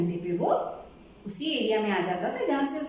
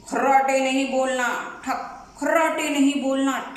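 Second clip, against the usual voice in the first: watchman calling out; 4 dB louder than usual. Acted. Watchman calls out near window.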